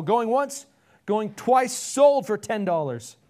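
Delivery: loud, high closing call, last part drawn out; auctioneer. A narrator's reading. Auctioneer selling for ten dollars, loud call. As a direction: close the sale like an auctioneer. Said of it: "The auctioneer pounded the gavel".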